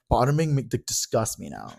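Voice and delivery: imitating a friend's new opinion; mocking friend. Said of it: "he's like".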